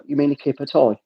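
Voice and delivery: Birmingham "tie" pronounced toy; retold line in a Brummie accent. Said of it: "Is that how the accent makes it sound?".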